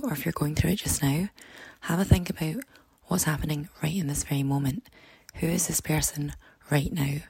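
hoarse, croaky speaking voice. Real, not acted. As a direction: talk through a croaky, worn throat. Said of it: "apologies for the really croaky voice".

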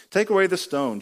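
Jesus ordering the stone moved; Jesus commanding. Retold or imitated. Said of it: "Jesus said".

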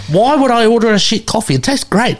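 high-pitched, incredulous retort; mock exasperation. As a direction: protest as if it's obvious. Retold exasperated argument about coffee.

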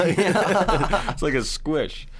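laughing, high and slow; giggling through the words. Real, not acted. Laughing about the gory scene.

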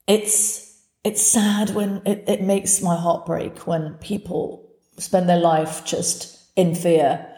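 slow, halting and heartfelt; real sadness for a friend, taken slowly; emotional, sad. Real, not acted. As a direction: pause and restart, drawing the words out. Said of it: "I feel emotional for my friend".

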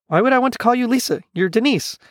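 high, quick puzzled retort; baffled protest. Acted. Gonzo refusing to call Denise Lisa, baffled. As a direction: question it quickly, pitch jumping up.

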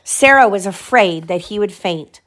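animated storybook reading; lively bedtime-story voice; story narration. A narrator's reading. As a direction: read aloud to a child, lifting the characters' lines. Reads story to child.

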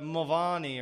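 "Mulvaney" as mul-VAH-nee; Irish-corrected pronunciation. Retold or imitated. Host guesses the Irish version, "Mulvaney" as mul-VAH-nee. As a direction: try "Mulvaney" with an open AH in the middle. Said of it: "the Irish guys corrected you on".

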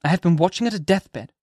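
Hester answering. Acted. Hester telling the minister, calmly. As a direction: answer plainly and gently. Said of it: "answered Hester Prynne".

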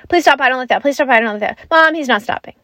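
imitating a daughter's hurried complaint; rapid-fire plea. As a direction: rattle off the plea, then call for mom. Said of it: "asks them to stop as quickly as possible".

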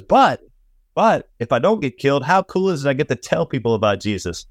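imitating Paul's eager thrill at telling people; excited Paul. Paul voiced, thrilled about preaching.

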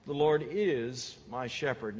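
"Lord" held and weighted, slow; slow, weighted reading with "Lord" pressed; stress on Lord. Shown as a demonstration. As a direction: lean on "Lord is". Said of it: "I kinda highlighted two words".

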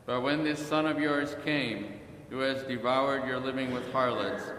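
measured, evenly pitched gospel reading; scripture reading. A narrator's reading. Reading the parable to the congregation, measured proclamation. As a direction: read solemnly, letting each phrase fall at its end.

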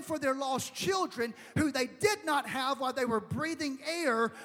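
forceful, drawn-out pulpit delivery; fervent preaching. Real, not acted. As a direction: preach it with urgent conviction, stretching key words.

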